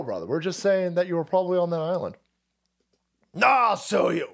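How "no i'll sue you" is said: Jimmy Kimmel. Acted. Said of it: "Jimmy Kimmel says".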